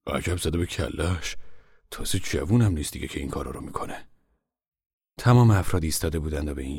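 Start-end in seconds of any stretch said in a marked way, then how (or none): 0.1-4.1 father grumbling about his stubborn wife. Acted. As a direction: grumble it under your breath. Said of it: "پاپا غرولند کنان گفت".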